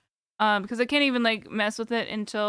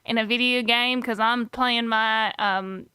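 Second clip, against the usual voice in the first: lightly put-on Texas accent, a clueless redneck ranting; Texas accent character. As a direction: play a gun-loving Texan who can't see his own faults. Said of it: "You can tell it by the accent".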